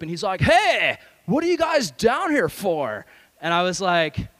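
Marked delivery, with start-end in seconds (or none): 0.4-3.1 loud, high surfer holler. Retold or imitated. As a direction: call out like a mock surfer dude. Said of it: "this surfer comes up to our group".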